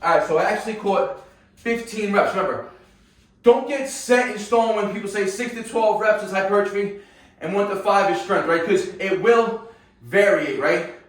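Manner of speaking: winded after a hard set; panting between words after exercise; out of breath. Real, not acted. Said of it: "you can see I'm out of breath now".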